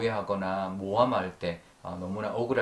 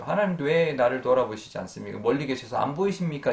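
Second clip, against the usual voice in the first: higher, slightly louder imitated plea; mild retold lament; 4 semitones higher, 4 dB louder than usual. Preacher showing what Job meant to God, mildly lamenting. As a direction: plead upward, lightly acting it out. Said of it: "한탄이죠".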